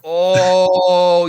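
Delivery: sudden loud realization; loud surprised oh. Real, not acted. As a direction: burst out with shock.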